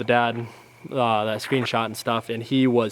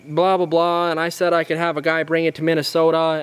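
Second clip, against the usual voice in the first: mock him in a higher whine; a higher whiny imitation of the dad; 4 semitones higher than usual.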